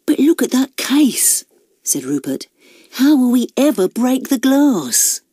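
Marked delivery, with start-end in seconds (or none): 0.1-1.4 higher-pitched fretting sidekick; worried thief. A narrator's reading. Rupert points out the case to Nigel, high worried voice. Rupert frets about breaking the glass. 2.9-5.2 higher-pitched fretting sidekick; worried thief. A narrator's reading. Rupert asks Nigel about breaking the glass, high worried voice. Rupert frets to his accomplice.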